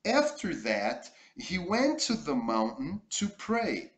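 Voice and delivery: careful English reading for learners; model reading. Shown as a demonstration. Teacher reading the story aloud for the class. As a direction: read it clearly for students to copy.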